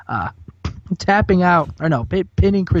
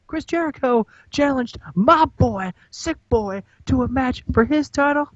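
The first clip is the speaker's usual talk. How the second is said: hammed-up rapper intro, pitched way up; Low D hype man; 3 semitones higher than usual. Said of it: "Low D's like".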